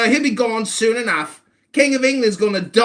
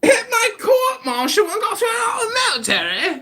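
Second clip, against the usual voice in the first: incredulous outcry; 9 semitones higher than usual. Real, not acted. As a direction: throw the accusation back in outrage. Incredulous echo of the accusation.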